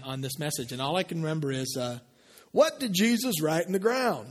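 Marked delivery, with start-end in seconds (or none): 2.5-4.3 raised-pitch mock preacher dad; lightly put-on accent of a preaching father; imitating his father. Son quoting dad's old sermon, imitating him. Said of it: "how you normally imitate your father".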